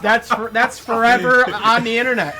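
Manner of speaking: talking through laughter; can barely speak for laughing. Real, not acted. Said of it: "choking over there from laughter".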